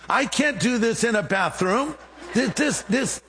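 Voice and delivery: high-pitched, stammering inner objection; mock protest. Preacher protesting inwardly at witnessing in a bathroom, flustered. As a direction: balk at it, pitch up, stumbling on the words. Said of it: "Again, I'm thinking".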